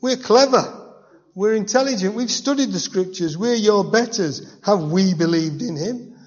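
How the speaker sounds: high, loud, self-important bragging; smug Pharisees boasting. Retold or imitated. Preacher voicing the Pharisees lording it over guards, pompous and loud. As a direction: crow about your own superiority.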